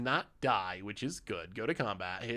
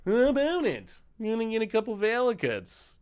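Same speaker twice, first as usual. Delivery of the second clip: exasperated high voice; 10 semitones higher, 3 dB louder than usual. Real, not acted.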